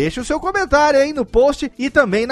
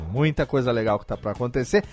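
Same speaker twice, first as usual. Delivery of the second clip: low announcer voice; 9 semitones lower, 5 dB quieter, faster than usual. Acted. Low teaser voice continues.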